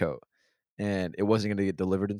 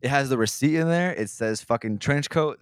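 exasperated rant; 5 semitones higher, 6 dB louder than usual. Real, not acted. Still ranting about the jacket.

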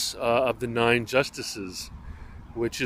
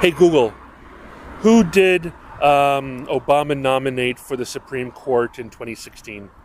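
clear, louder command to Google; talking to voice assistant; 2 semitones higher, 4 dB louder than usual. Real, not acted. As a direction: address the smart speaker clearly. Speaking to voice assistant.

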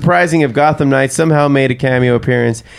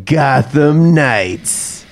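trailer voice; much slower than usual. Acted. Dramatic trailer title read.

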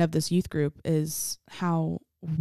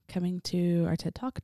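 joking; 3 dB quieter than usual. Pretend. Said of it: "No, I'm just kidding".

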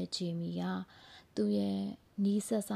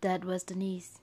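gardener's confessional monologue, halting with long pauses; Jamie, recounting a hard life; much slower than usual. Acted. Gardener telling Danny about her own life, measured confessional delivery. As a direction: tell a painful life story piece by piece, building in intensity at the bitter parts.

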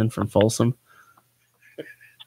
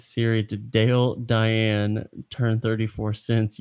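reading Siri's mishearing; slower than usual. Retold or imitated. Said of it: "It says".

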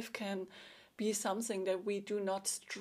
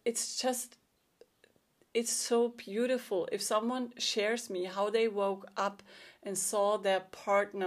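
a breathy, moved whisper on beautiful; real tender emotion, voice thinning; moved, emotional. Real, not acted. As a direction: speak through rising emotion, near tears. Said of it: "getting so emotional".

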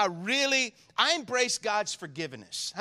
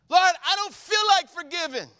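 honest prayer; 8 semitones higher, 7 dB louder than usual. Shown as a demonstration. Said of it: "we need to pray like this".

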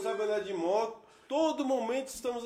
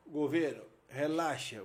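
low, soft, easygoing reply; retold reassurance; 6 semitones lower, 6 dB quieter, slower than usual. Rider calms the boy's father on the phone, retold reassurance. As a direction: play it down, dropping low and quiet. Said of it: "Eu falo".

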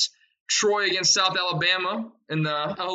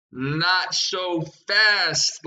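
slow, drawn-out catchphrase, lightly imitated; Lee Corso catchphrase; 3 dB louder, much slower than usual. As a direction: stretch each word like a TV analyst teasing. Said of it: "like my boy Lee Corso".

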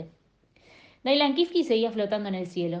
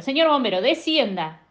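louder barked commands, slowing at the end; shouted orders; 4 dB louder than usual. Acted. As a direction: order the pilot around through the noise. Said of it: "empezó a gritarle instrucciones". (instrucciones a los gritos)

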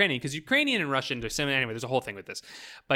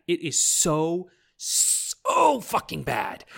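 "so" drawn out very long; exasperated emphasis; 3 semitones higher, much slower than usual. Real, not acted. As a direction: hold "so" in disbelief, slow and emphatic. Stressing how bad acting was.

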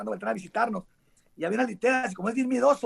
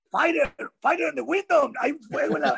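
higher, slowed mock cry of alarm; retold alarm; 5 semitones higher than usual. Stanky warning Eric of fire at the window, mock alarm. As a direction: act out raising the fire alarm, half in jest.

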